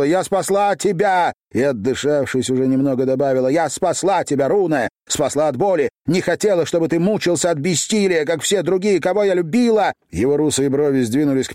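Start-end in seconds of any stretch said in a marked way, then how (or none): 0.0-1.3 desperate shout. A narrator's reading. Exhausted girl shouting at Runa she saved him. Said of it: "крикнула". 3.5-9.9 tearful outburst. A narrator's reading. Tearful confession after shouting.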